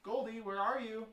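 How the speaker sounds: high, loud searching call. Acted. Child seeking Goldie in hide and seek, calling out. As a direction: call out for someone hidden.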